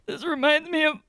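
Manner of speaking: imitating crying brother. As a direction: do the brother choked up over a gift. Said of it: "my brother will open a gift and he's like".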